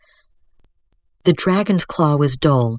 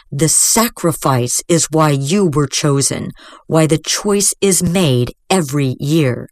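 harsh. Acted.

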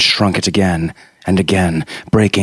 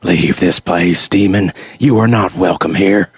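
preacher's warning. Acted. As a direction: banish the demon like a sermon. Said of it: "held out a book before him like a talisman".

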